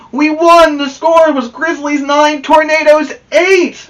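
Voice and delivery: loud, high happy announcement; excited. Acted. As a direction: proudly tell her the score. Boys celebrating victory.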